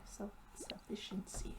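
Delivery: breathy whisper of the word; whispered aside. Real, not acted. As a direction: whisper it to yourself. Muttered aside while reading.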